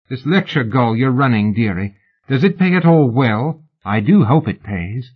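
woman needling the lady about money; sly condescension. Acted. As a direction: talk down to her like a dear. Fan sneers at lady.

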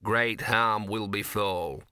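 a dog repeating the words under his breath; muttered echo. Acted. Gaspode muttering Ginger's warning back, slow sardonic mutter. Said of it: "muttered Gaspode".

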